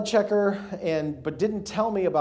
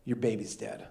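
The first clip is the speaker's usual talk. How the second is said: enemy's voice; 7 semitones lower, 8 dB quieter than usual. Retold or imitated. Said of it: "this is what I hear".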